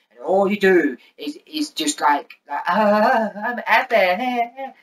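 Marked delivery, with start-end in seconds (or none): 2.7-4.7 high, slow whiny mimic; mocking Abby.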